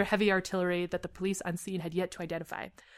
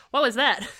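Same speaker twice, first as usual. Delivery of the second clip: raised, louder captain's demand; barked question; 5 semitones higher, 4 dB louder than usual. A narrator's reading. Captain to inattentive team member, barked. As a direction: lightly bark it at a subordinate. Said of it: "Your captain barked to you".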